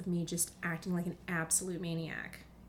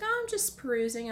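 higher, louder carefree mom, lightly done; airy mom; 5 semitones higher, 6 dB louder than usual. Retold or imitated. Mom shrugging off her shopping, airy. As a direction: breeze it out like mom. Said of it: "She's like".

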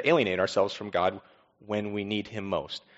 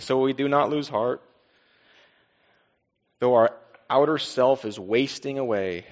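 scripture reading. Acted. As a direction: proclaim the passage to the church. Reads scripture to congregation.

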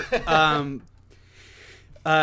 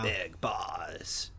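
low, soft whisper; breath-only, lowered repeat of the name; hushed reveal; 6 semitones lower, 7 dB quieter than usual. Pretend. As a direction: whisper the name for dramatic effect.

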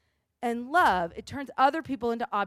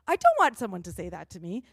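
put off. Pretend. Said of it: "you go".

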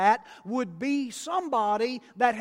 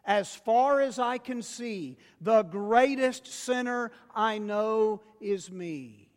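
louder congregational call; 2 semitones higher, 4 dB louder than usual. Shown as a demonstration. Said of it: "Y'all say that with me".

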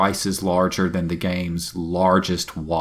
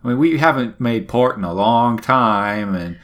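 higher, wheedling sailor voice; pleading pirate crew; 5 semitones higher than usual. Retold or imitated. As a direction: coax the captain for shore leave. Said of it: "they're like".

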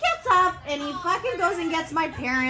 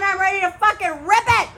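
excited shout; 6 semitones higher, 6 dB louder than usual. Real, not acted. Venting rage, shouting.

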